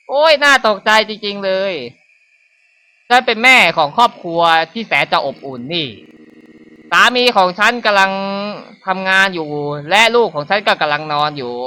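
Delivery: a hint of sinister cheer; creepy fake-sweet mother. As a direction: play a creepy mother pretending all is well.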